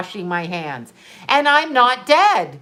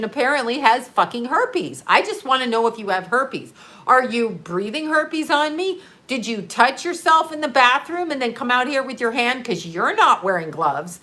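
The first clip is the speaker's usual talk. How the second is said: whack job rant. Retold or imitated. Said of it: "that whole fucking whack job way".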